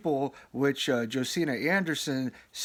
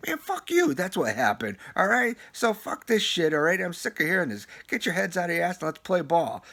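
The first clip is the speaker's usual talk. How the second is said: halftime pep speech. Real, not acted. Fan ranting at the team.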